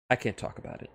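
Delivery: hushed, unvoiced aside; secretive whisper. Sonya admitting the kiss, whispered secretively. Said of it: "this was Sonya's response to that".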